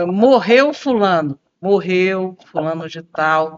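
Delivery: slow, low, somber delivery; all in a low register. Shown as a demonstration. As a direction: say it heavy and low like bad news. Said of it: "tudo no grave".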